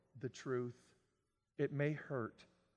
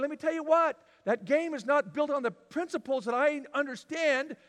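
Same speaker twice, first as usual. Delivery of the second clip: loud, high, slow warning; voicing God's loud warning; 6 semitones higher, 7 dB louder than usual. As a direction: pound each word like a verdict. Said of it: "and God's going".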